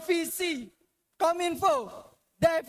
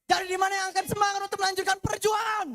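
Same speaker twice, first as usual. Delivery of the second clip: rallying shout; 2 semitones higher, faster than usual. Real, not acted. Orator rallying the crowd.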